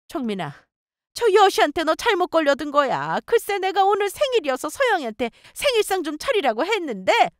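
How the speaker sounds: aggrieved mother-in-law. Acted. Mother-in-law turns to her son, bitterly complaining. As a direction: complain to your son in a high voice.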